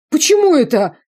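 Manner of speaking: high, loud whiny question; a shrill offended retort; indignant. A narrator's reading. Prisoner indignant. (высокий громкий обиженный вопрос)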